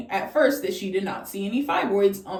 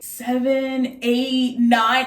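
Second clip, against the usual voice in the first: slow count, louder on the last number; counting upward; 3 semitones higher, 3 dB louder, much slower than usual. Retold or imitated. Ultrasound tech counting fibroids aloud to the patient, slow count-up. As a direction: count up haltingly, one number at a time. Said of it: "it just kept going up".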